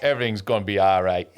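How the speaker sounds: lightly put-on Jamaican accent; reassuring line in mock Jamaican accent. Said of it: "in a Jamaican accent".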